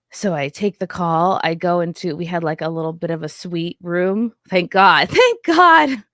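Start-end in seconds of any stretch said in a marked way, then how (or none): 5.1-6.0 higher, laughing through the words; laughing relief. Real, not acted.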